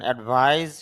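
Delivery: অ্যাডভাইস ending in a buzzing z; final z sound. Shown as a demonstration. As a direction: voice the last consonant of অ্যাডভাইস as z. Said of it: "জ sound হয়". (অ্যাডভাইস-এর শেষে জ (z) sound)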